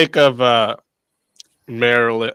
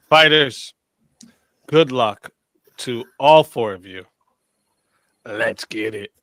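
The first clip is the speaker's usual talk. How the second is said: slow, measured match announcer; game host announcement. Real, not acted. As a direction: lay out the rules deliberately, with dramatic gaps. Host announces the round's rules.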